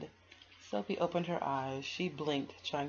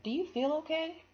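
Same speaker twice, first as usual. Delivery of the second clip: worried mom; 13 semitones higher, 6 dB louder than usual. Acted. Mother checking sick daughter.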